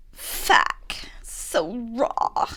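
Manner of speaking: breathy, whispered attempt at someone else's line; attempted Ambi voice. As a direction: whisper it as a failed Ambi impression. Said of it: "I can't do Ambi's voice".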